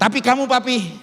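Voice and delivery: a hint of an anxious wife; worried wife's question. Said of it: "Terus istri saya tanya".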